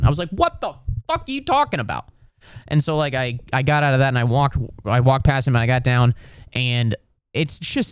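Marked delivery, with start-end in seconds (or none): 0.3-2.1 very high, disbelieving squawk; retold disbelief, pitched way up without shouting; incredulous outburst. Passenger told he waited in the wrong line, high incredulous outburst. Reacting to wasted wait in line.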